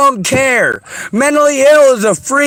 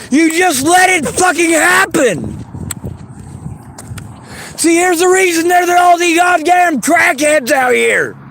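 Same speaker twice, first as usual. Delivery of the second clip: angry shouting; 2 semitones higher than usual. Real, not acted. Furious rant at dismissive friend.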